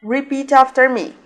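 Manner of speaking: ordinary talk, nothing marked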